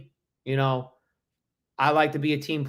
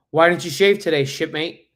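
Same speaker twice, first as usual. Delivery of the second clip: a louder, lightly acted challenge; hint of a Navy sergeant demanding answers; mock superior; 2 semitones higher, 4 dB louder than usual. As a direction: question a junior like a superior. Acting a superior from a reel.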